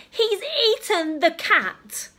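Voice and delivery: high, loud shocked shout; father's shocked outburst. Acted. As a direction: shout in disbelief. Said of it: "shouted Father".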